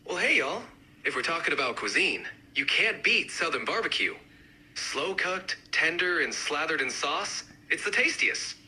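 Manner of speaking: lightly done Southern accent. Shown as a demonstration. Barbecue advocate arguing for the best regional dish, mild Southern accent. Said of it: "each accent, uh, represented by a speaker".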